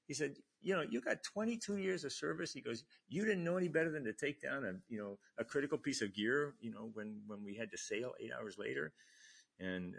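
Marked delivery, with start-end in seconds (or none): 0.6-2.5 louder, higher-pitched imitation of a scolding; retold angry scolding. Officer dressing down a veteran chief, retold angry scolding. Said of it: "getting yelled at by the E". 3.1-8.9 mock reprimand, higher and louder; retold angry scolding. Officer blaming chief for dismantled gear, retold angry scolding. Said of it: "getting yelled at by the E".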